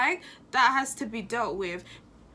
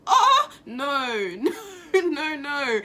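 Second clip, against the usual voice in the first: laughing and crying at once; a helpless laugh through tears; nervous laughter; 4 dB louder, slower than usual. Real, not acted. To viewers, upset over a killing, nervous crying laugh. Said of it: "I don't know why I'm laughing".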